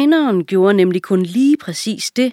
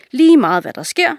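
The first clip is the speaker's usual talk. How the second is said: commanding king; 8 semitones higher, 5 dB louder than usual. A narrator's reading. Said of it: "sagde kongen".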